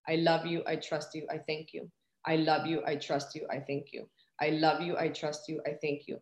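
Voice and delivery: soft, low repeated chant, fading on each third phrase; murmured mantra. Shown as a demonstration. Repeating her mantra to God, soft and low. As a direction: say it inwardly, as if to yourself. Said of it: "This is my mantra right here".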